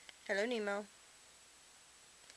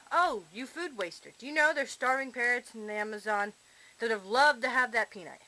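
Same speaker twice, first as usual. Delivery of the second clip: louder playful telling-off; mock scolding; 2 semitones higher, 7 dB louder than usual. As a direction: scold the bird in jest. Scolding parrot for dropped peanut.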